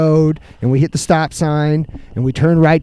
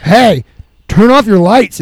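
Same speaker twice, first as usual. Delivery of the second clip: louder, higher mock holler with pauses between calls; drunk neighbour yelling; 5 semitones higher, 7 dB louder, slower than usual. Drunk neighbour to a cop at the corner, yelling. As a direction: holler it across the street, imitating an irate drunk.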